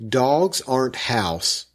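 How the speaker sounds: slow, emphatic read of the capitals; reading caps aloud with weight; all caps. Shown as a demonstration. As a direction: stamp out each capital word slowly. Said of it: "All caps".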